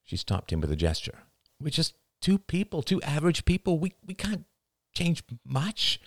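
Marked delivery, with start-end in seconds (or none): 1.6-6.0 lightly voiced wife, higher, resigned; weary wife. A narrator's reading. Wife tells husband they can't change much, lightly voiced and resigned. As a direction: gently bring him back to earth. The narrator's voice, pitched up.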